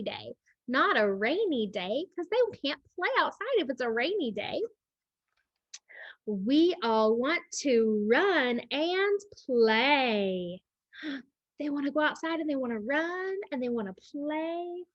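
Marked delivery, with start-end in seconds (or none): 6.3-10.6 very slow storybook line; slow story reading. Acted. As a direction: draw out each word for the kids. Reading book text.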